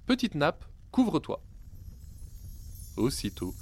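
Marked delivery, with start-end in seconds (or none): 0.0-1.4 "Petite nappe, couvre-toi" called out much higher; hungry boy shouting the magic words at the inn; exclaiming. A narrator's reading. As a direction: call the spell out eagerly. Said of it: "et s'exclama".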